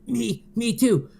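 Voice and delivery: high, loud hammed-up moan; over-the-top squeaky moan. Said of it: "Shadow moans".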